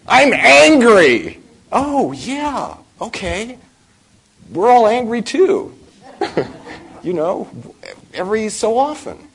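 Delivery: very high, loud, drawn-out sing-song mockery; mocking high voice. Teacher mocking the confession of anger in a high sing-song. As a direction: lampoon the fuss about anger in a silly falsetto.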